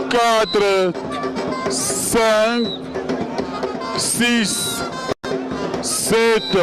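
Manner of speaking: slow drawn-out count to seven; boxing ring announcer. Acted. Commentator counts out fallen wrestler.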